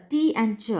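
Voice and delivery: "T and ch" as two separate syllables; split syllables. Shown as a demonstration. Lecturer splitting teacher into two syllables, syllable by syllable. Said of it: "divide the word teacher into two syllables".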